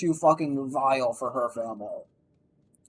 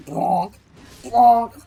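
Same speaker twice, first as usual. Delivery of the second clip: spoken bonk sound effect, second one higher and louder; imitated bonk; 5 semitones higher, 6 dB louder than usual. Streamer sounds out bumping into something, imitated bonk.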